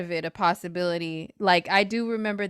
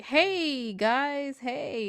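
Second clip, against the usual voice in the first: mock bubbly greeting; 4 semitones higher, much slower than usual. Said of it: "not that type of vibe".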